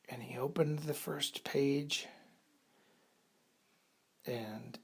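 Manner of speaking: hushed bedtime story. A narrator's reading. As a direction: softly read story, dropping toward a whisper.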